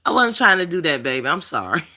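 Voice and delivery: saying sorry gently through tears; tearful apology. Real, not acted. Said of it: "bust out crying".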